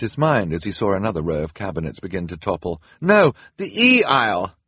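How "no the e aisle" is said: high loud shout; calling out. Acted. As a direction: shout directions over the noise. Klaus shouting over crashing cabinets.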